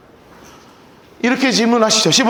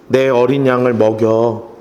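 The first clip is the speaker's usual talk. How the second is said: slow, low and tender words of Jesus; gentle low command; 13 semitones lower, slower than usual. Retold or imitated. Jesus answers Peter gently. (베드로에게 예수님이 낮고 부드럽게)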